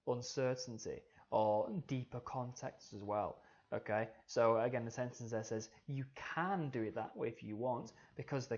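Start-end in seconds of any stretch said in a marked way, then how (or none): 5.9-7.9 "can" leaned on, hinting at doubt; stress on can. Shown as a demonstration. Teacher showing what italics imply, uncertain stress on "can". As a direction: emphasise "can" so the permission sounds uncertain. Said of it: "it creates that uncertainty".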